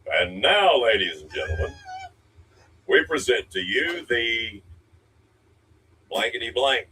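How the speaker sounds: grand showman announcement; old radio announcer. Pretend. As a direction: announce it like a game show host. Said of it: "do that voice".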